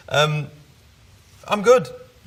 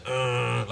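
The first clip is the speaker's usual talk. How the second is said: put-on baby growl; 3 semitones higher, 4 dB quieter than usual. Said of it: "like this, like, growling at everyone".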